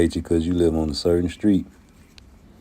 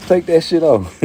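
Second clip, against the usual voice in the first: high, louder hammed-up Australian accent; mock Australian; 11 semitones higher, 5 dB louder than usual. Australian visitor told to take the jacket off, high mock Australian accent. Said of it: "from Australia".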